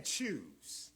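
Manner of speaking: low, soft whispered command; low hushed voice. A narrator's reading. Sermon, the inner voice at the fork: hushed whisper. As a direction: breathe the word like an inner voice. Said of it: "It's simply saying".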